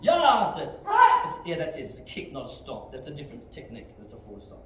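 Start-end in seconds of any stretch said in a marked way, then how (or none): 0.0-0.8 high, explosive counting yell; drill command shout. Real, not acted. Instructor calling kicks for students, shouting. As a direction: bellow the count to drive the class.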